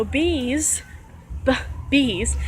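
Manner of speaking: "B's" drawn out with a clear B; over-exaggerated sound. Shown as a demonstration. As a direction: stress and stretch the B in "B's". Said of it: "over-exaggerate the tone, the sound".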